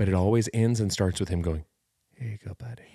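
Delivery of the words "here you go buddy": put-on soft, quiet ASMR half-whisper. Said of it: "Really quietly, A S M R style".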